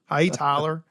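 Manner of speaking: light Southern drawl on the greeting; a hint of a Southern accent. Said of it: "I do a real good Southern accent".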